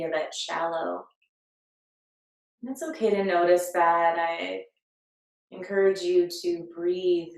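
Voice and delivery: calm, unhurried meditation guide with long pauses; guided meditation. Acted. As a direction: lead them gently into breath and body awareness. Leads a breathing meditation.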